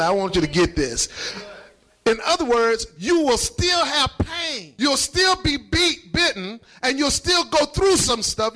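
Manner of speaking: slow, emphatic preaching for understanding; deliberately slow. Real, not acted. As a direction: say it slowly so it sinks in. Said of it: "I'm gonna say this slowly".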